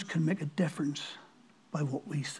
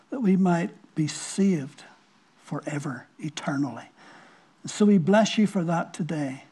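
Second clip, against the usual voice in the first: earnest prayer voice, measured; closing prayer. Acted. Pastor praying over his congregation in earnest.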